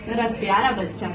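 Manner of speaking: quiet motherly fondness; tender praise. Real, not acted. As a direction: praise your little one softly. Mother praises her child.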